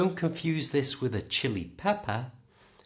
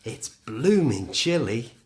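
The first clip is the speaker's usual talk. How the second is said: cold and rubbing hands; 6 dB louder than usual. Shown as a demonstration. Teacher acting out feeling the British cold. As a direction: say it like you're shivering in the cold. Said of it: "Don't forget the hands".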